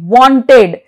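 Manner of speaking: "Wanted" in two syllables, full "ted" ending; pronounced E. Shown as a demonstration. Teacher shows E after T, "Wanted" with full E. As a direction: sound the E clearly in "Wanted", as won-ted. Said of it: "but here it is pronounced".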